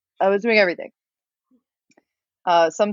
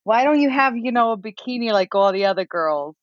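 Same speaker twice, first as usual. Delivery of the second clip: a nosy New York guest again; New York lady; 2 semitones higher than usual. Retold or imitated. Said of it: "That's the accent I have right now".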